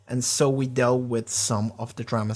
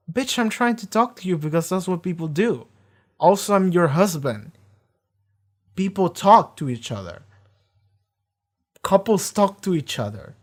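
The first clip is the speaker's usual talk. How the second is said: mock angry husband; 5 semitones higher than usual. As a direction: play the fed-up husband snapping back, hammed up. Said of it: "And then Riz is like".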